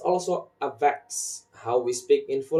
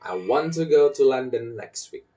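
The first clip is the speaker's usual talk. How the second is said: "want", "go", "London" stressed; sentence stress; 2 semitones higher, 4 dB louder than usual. Shown as a demonstration. Teacher repeats the rhythm example, stressing "want", "go", "London". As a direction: lean on "want" and "go", lighter on "to". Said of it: "English stressing in action".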